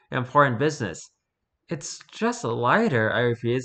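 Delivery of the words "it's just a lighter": slow, timid, like being mugged; meek and scared. Acted. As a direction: say it slowly, cowed and nervous. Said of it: "sounded more like a person being mugged".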